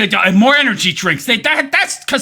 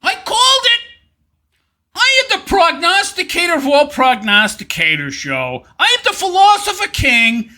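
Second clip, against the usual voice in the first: mock boasting; 3 semitones higher than usual. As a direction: proclaim your own greatness, hammed-up. Mock boasting as the philosopher king.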